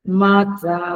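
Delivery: मात्रा with a drawn-out आ, held evenly; long held vowel. Shown as a demonstration. Teacher showing students vowel length, long held vowel. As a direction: stretch the मा of मात्रा long and steady. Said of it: "जब माँ बोलते हैं तो double time लगता है".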